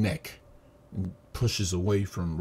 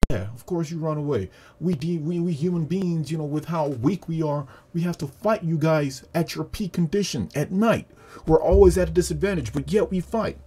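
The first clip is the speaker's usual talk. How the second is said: high-pitched, heated acted speech; impassioned rebuke; 8 semitones higher, 4 dB louder than usual. Tanjiro shouting back at the demon, indignant. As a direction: build to a louder, higher protest.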